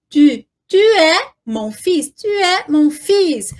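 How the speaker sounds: "tu" with a French u, neither "tu" as in Portuguese nor "ti"; careful French "tu". Shown as a demonstration. Teacher drilling the sound of "tu", carefully pronounced. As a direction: say "tu" carefully, rounded between oo and ee. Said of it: "falei muito da pronúncia também do tu".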